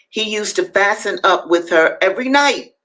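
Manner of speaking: "every night" lifted as an exclamation; exclamatory reading. A narrator's reading. Reader voicing Douglass's exclamation point, emphatic "every night". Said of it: "There's an exclamation point after that".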